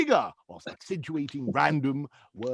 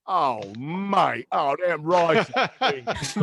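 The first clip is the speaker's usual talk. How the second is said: lightly voiced Greg Wallace, slow and relishing; Greg Wallace impression; much slower than usual. Comedian mimics MasterChef judge tasting food, slow relish. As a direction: savour each word like a TV food judge. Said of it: "Greg Wallace from MasterChef".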